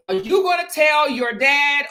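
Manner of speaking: mom's stern demand. Retold or imitated. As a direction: press her daughter hard for an answer. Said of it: "my mom looked at me and said".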